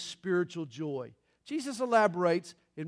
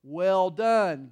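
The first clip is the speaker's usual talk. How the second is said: mock bark, louder on both words; barked reply; 7 dB louder than usual. Husband answering his sarcastic wife in bed, mock bark. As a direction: bark it back like a fed-up husband, lightly acted. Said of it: "her husband barked back".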